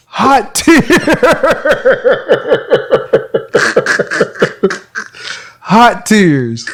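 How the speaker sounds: high, laughing take on the phrase; co-host urged to say it, laughing. Shown as a demonstration. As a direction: deliver it while cracking up. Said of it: "You gotta do this".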